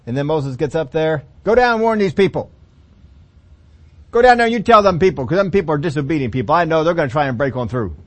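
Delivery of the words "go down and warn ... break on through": louder, exasperated God; loud command. Acted. God sending Moses down about disobedient people, louder. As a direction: order him down with force.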